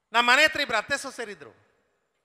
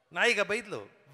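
slow punchline; 2 semitones lower, slower than usual. Shown as a demonstration. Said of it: "ಭಾಷೆಯ ಚಮತ್ಕಾರ ನೋಡಿ".

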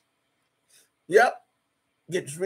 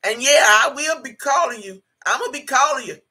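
high, sassy mock of the caller's voice; 4 semitones higher, 4 dB louder than usual. Mimicking the woman who called her, sneering. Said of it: "this woman had the nerve to say".

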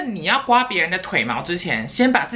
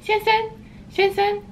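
calling through the door. Retold or imitated. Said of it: "我就跟他说".

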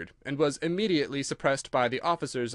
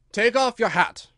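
King voice; 8 semitones higher, 8 dB louder than usual. A narrator's reading.

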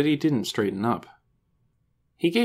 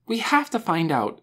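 higher-pitched, eager urging; excited; 7 semitones higher than usual. A narrator's reading. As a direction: urge your friend on, impatient. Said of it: "she was so excited".

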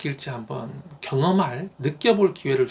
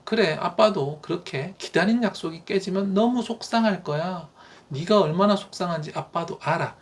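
empathetic father; 2 semitones higher than usual. Shown as a demonstration. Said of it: "입장을 바꾸어서 공감하고 있음도 좀 보여주시고요".

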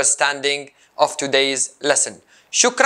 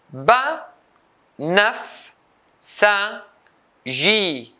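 "banafsaji" as ba, naf, sa, ji with pauses; four isolated beats for "banafsaji", high start; syllable by syllable; 4 semitones higher, much slower than usual. Shown as a demonstration. Teacher cutting the word into four, syllable by syllable. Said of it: "four syllables".

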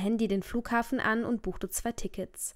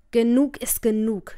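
angry father; 6 dB louder than usual. Acted. Furious father throwing daughter out.

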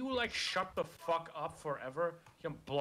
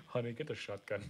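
laughing; 4 semitones lower than usual. Pretend. Joke, laughing.

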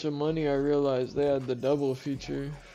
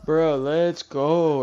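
shrieking jackpot winner; 2 semitones higher, 8 dB louder, much slower than usual. Real, not acted. Slot max win reaction.

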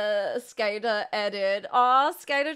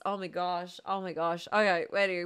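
winded; 6 semitones lower, 8 dB quieter than usual. Real, not acted. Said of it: "I'm so lightheaded".

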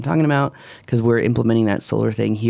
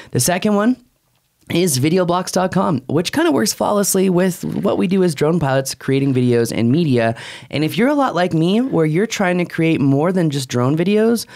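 upbeat, measured ad pitch; host's conversational ad read; podcast sponsor read. Real, not acted. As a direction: sell it with punched key phrases. Reads the sponsor ads.

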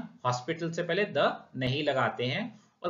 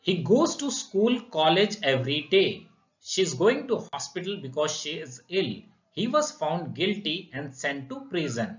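slow example read; much slower than usual. Shown as a demonstration. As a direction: read each English example slowly and clearly, word by word. Reads English example sentences. (धीमे, साफ़ उदाहरण वाक्य पढ़ना)

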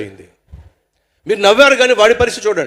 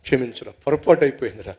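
begging forgiveness; 5 semitones lower, 3 dB quieter than usual. Acted. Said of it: "వీడేమో కాళ్ళ ఎలా పడ్డాడు".

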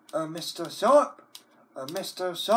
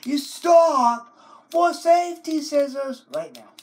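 stern order; 9 semitones higher, 6 dB louder than usual. Acted. Ordering the computer.

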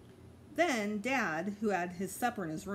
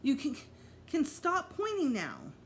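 calling out; 8 semitones higher than usual. A narrator's reading.

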